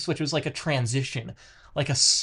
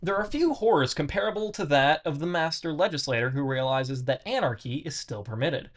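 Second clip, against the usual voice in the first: reading aloud; 2 semitones higher than usual. Acted. Resumes reading the text.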